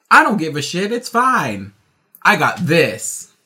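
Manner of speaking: careless country guy. Retold or imitated. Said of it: "country white guys ... like".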